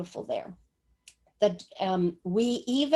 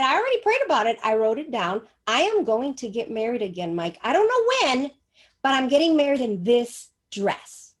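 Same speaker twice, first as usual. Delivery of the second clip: insistent; 4 dB louder than usual. Retold or imitated. Insisting to doubtful son.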